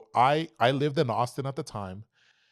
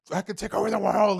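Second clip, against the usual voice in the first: high, pumped-up boast, far above his usual pitch; like you could conquer anything; high, excited brag after the kill; 11 semitones higher, 4 dB louder than usual. Retold or imitated. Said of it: "so pumped".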